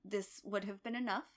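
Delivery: soft, dying mother's words; hushed and fading; quietly. Retold or imitated. Dying mother to daughter, said quietly. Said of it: "very quietly is like".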